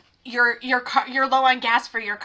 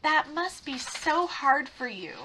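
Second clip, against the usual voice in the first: slow, softer fake sympathy; mock sincere; 2 semitones higher, 5 dB quieter than usual. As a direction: look him dead in the eye and pretend to care. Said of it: "to say as sincerely as possible".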